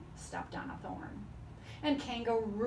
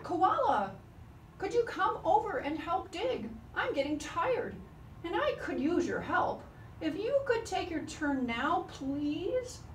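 polite request; 8 semitones higher, 3 dB louder than usual. Acted. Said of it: "Kangaroo politely asked".

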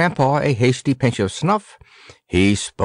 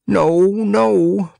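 sharp higher, louder protest; 8 semitones higher, 3 dB louder than usual. A narrator's reading. Grandpa protesting the iron head to the redsmith, loud. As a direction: shoot the idea down at once. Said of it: "protested Grandpa".

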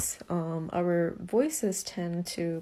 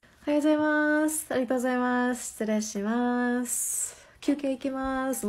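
higher-pitched polite Japanese, rattled off fast; high Japanese work voice; 4 semitones higher, much faster than usual. Retold or imitated. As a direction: chirp the polite Japanese phrases up high and quick. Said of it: "I'm just like".

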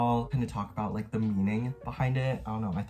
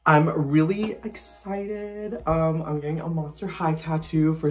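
excited; 5 semitones higher than usual. Real, not acted. Gushing about the tattoo.

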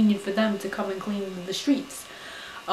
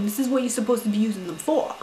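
retold scolding rant. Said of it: "I said".

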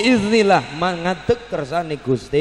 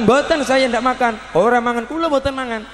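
insistent denial; 6 semitones higher than usual. Acted. Disciple denies again, insisting.

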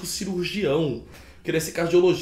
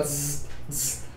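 soft imitated tattoo-machine buzz; quiet mock buzz of the machine; buzzing needle noise; 8 dB quieter than usual. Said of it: "E eles faziam, ó".

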